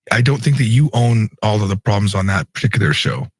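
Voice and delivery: hoarse, strained voice from yelling; raspy hoarse voice. Real, not acted. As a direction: talk through a worn-out, raspy throat. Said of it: "I have no voice right now".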